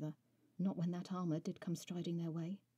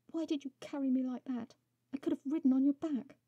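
much higher, louder indignant cry; indignant outburst; 8 semitones higher, 8 dB louder than usual. A narrator's reading. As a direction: let it burst out. Heroine blurts indignant question.

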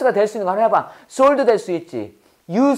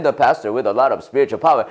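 much lower, slow, resonant belly voice; 8 semitones lower, much slower than usual. Shown as a demonstration. Teacher showing students how to speak from the belly, low and slow. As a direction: drop the voice deep into the belly and roll it out slowly. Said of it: "이렇게 말해야 돼".

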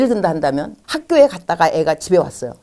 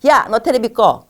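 bossy order; 4 semitones higher, 3 dB louder than usual. Shown as a demonstration. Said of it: "테레비 보고 있을 때".

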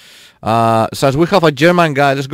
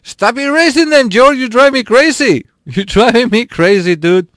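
high-pitched, laughing protest; playful exasperation; 9 semitones higher, 3 dB louder than usual. Real, not acted. Streamer scolds a viewer for erasing messages, playfully exasperated.

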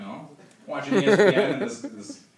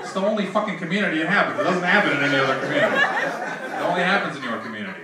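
heated rant; 3 semitones higher, 5 dB louder than usual. Real, not acted. Ranting punchline at audience.

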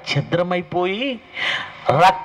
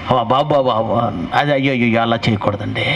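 fussy wedding guest; 8 semitones lower than usual. Retold or imitated. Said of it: "పక్కన ఉన్న ఆయన".

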